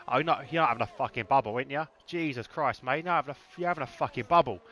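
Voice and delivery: light Cockney banter with mates. Acted. Joking with his mates, Cockney coming out. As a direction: slip further into joking Cockney. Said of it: "the Cockney really comes out".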